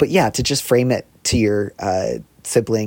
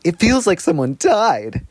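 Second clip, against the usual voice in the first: mock-sincere, slower sarcastic throb; 7 semitones higher, slower than usual. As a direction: drip sarcasm, slow and higher. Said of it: "I put such a sarcastic little throb in my voice".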